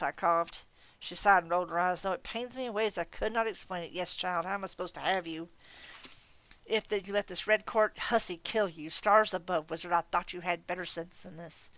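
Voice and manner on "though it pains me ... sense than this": scornful fae aunt scolding a fool; a hint of a cold, proud godmother; haughty faerie godmother. Leah the faerie godmother speaks.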